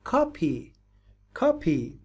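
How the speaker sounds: کاپی said slowly with an open "kaa" vowel, kaa-pi; correct pronunciation. Shown as a demonstration. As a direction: say کاپی clearly as kaa-pi, stress on the first syllable. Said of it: "ببینید تلفظ صحیحش".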